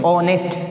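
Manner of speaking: ऑनेस्ट starting on an O sound; silent H. Shown as a demonstration. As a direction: pronounce ऑनेस्ट with no H, "o-nest". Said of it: "ऑनेस्ट बोलेंगे".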